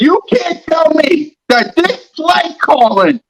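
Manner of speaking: high, slow exasperated shout at Rock; frustrated yell. Real, not acted. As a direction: yell it out, fed up with the play calling. Frustrated rant at co-host.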